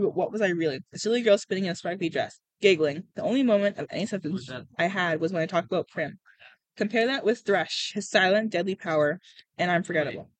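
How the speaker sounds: steady storytelling with lightly voiced dialogue; story narration. A narrator's reading. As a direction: read it like an audiobook, lightly acted. Reads a novel aloud.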